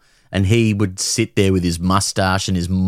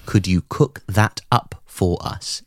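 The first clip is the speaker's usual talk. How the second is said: put-on Aussie accent; slower than usual. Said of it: "is what he would say verbatim".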